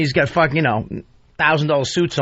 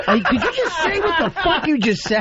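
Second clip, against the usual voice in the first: high, stunned retelling; acted disbelief; 10 semitones higher than usual. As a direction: voice climbing in mock shock. Acting out his shocked reaction.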